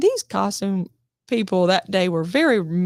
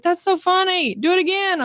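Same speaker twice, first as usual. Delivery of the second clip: higher, tickled director; amused director; 8 semitones higher than usual. Retold or imitated. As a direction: ask for more, delighted. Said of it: "he was like".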